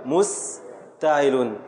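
"مستعل" drawn out slowly; slow scansion. Shown as a demonstration. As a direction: sound out every syllable. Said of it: "teacher scans foot slowly". (تقطيع بطيء)

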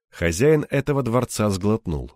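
ordinary delivery

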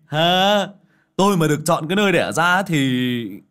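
loud, high demanding jab; demanding jeer. Acted. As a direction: hurl the question at her. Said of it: "lại tiếp tục cái giọng hạch sách".

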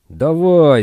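loud high barked order; shouting. A narrator's reading. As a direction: yell it like a guard driving prisoners. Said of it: "орали полицейские".

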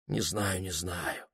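very soft, hushed mumble; a soft, hesitant murmur; quiet. Acted. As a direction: say it almost under your breath. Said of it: "тихо сказал он".

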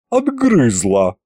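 dismissive. Acted. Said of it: "отмахнулась она".

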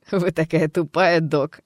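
loud, laughing insult; mocking laugh. Alter ego laughing at the doctor, contemptuous. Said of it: "хрипло рассмеялась Джесс".

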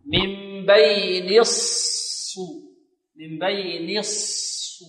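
very slow من بين, stretching the still saad of الص; held unrounded saad. Shown as a demonstration. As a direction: glide from noon to a long unrounded saad in الص. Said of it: "إلى الصاد الساكنة".

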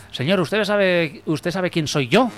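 mild general's shout. Acted. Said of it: "grita el general".

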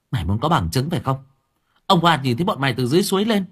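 fast, rising challenge; determined girl. Acted. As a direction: push back hard with the witness. Lán presses her case. (Lán quyết tâm, nói nhanh)

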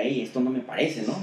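usual speaking voice

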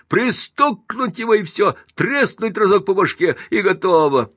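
high, loud mob shouting; the whole crowd mocking a silent alderman; furious jeering. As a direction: threaten to knock him down. Mob jeers and threatens.

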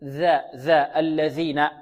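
ذا with the tongue tip on the upper teeth edges; interdental dhal. Shown as a demonstration. Teacher showing where the tongue goes, interdental dhal. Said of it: "على أطراف الثنايا العليا هكذا".

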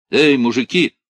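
loud, crackling voice through a megaphone; metallic megaphone voice. A narrator's reading. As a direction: call out through a hissing loudhailer. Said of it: "металлический, со свистом и шелестом голос".

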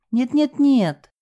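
high, slow, faltering no no no; timid babble of denial; unsure babbling. A narrator's reading. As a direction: stammer it out without conviction. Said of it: "без особой уверенности в голосе пролепетала".

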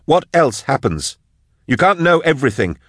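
high, urgent, angry tirade; yelling. A narrator's reading. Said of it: "Drusha yelled at the cage".

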